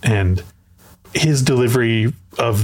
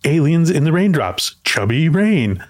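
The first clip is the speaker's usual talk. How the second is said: excited; 5 semitones higher, slower than usual. Retold or imitated. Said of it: "continues his excitement".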